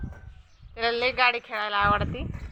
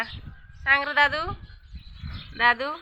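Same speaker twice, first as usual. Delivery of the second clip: slow coaxing call; 4 semitones higher, slower than usual. Real, not acted. Coaxing pet to speak.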